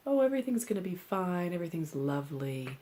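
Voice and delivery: gloss it over like a spiritual bypasser; airy mock optimism; mock reassurance. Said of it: "doing either a spiritual bypass".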